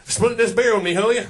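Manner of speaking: a hint of a gruff old dad asking; old father-in-law voice. Father-in-law asks son-in-law to split a beer, lightly voiced. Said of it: "Pop turns over to his son-in-law and goes".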